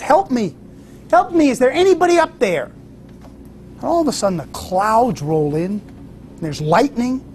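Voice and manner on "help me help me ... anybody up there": high, pleading cries for help; retold shout for help. Hiker dangling from a cliff calls for help, high pleading shout. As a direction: call up the cliff, pitched high and desperate. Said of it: "and he shouts".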